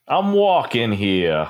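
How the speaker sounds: put-on slow New York accent. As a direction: drawl it like a New York cabbie. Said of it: "not New Yorker".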